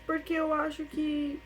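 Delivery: voz embargada, mais aguda, com pausas; choro contido. Real, not acted. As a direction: seguir o relato à beira das lágrimas. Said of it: "é impossível falar e não chorar". (voz de choro, embargada)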